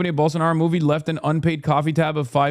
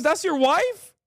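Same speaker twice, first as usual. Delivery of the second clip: pitched-up, stunned question; awed question; 13 semitones higher, slower than usual. Retold or imitated. Mao asking about the tall wife, high amazed question. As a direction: ask in amazement. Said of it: "He goes".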